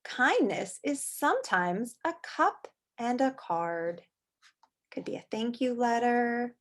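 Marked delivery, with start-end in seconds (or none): 0.0-4.0 slow whisper for the story line; hushed read-aloud whisper. Acted. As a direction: whisper the book's words softly. Reading the book's text.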